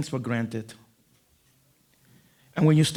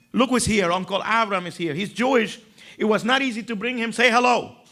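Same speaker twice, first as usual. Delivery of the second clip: high, bright prompting; sister announcing; 7 semitones higher than usual. Retold or imitated. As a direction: coax the kids to greet. Sister presenting uncle to kids.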